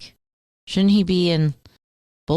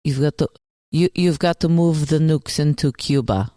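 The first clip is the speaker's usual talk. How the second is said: mock Russian accent. Cohost asks for some Russian, mock Russian accent. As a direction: push it out like a cartoon Russian villain. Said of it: "Say some Russian".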